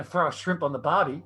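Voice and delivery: Australian accent, demonstrated on request. Shown as a demonstration. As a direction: show them how an Australian says it. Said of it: "Can you say that for us".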